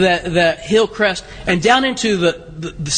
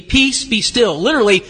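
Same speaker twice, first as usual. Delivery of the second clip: rebuking the storm; 2 semitones higher than usual. Retold or imitated. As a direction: command the sea to hush. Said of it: "rebuked the wind".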